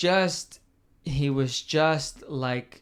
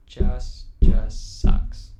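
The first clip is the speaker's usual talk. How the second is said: strained groan; 2 semitones lower, 9 dB louder, much slower than usual. Real, not acted. Mourning Klopp leaving.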